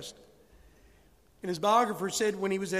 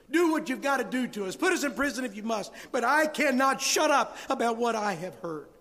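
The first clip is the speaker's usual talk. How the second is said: louder, higher defiant declaration; bold defiance; 4 semitones higher, 4 dB louder than usual. Acted. Peter defying the authorities who arrest him, bold and louder. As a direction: stand firm and refuse to be silenced.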